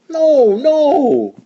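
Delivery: big high bellowed no; roaring no. A narrator's reading. Boris roars at Morris, loud and high. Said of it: "Boris roared".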